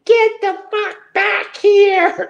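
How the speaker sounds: high, slow mock yell; a fairly mild imitation of an angry scream; retold scream. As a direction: shout it down the stairs, hammed-up.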